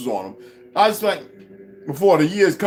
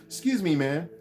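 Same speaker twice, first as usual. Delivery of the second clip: softer, timid and dainty politeness; mock soft polite man; 5 dB quieter than usual. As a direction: mimic the meek neighbor's delicate voice. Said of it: "like you trying to sound like".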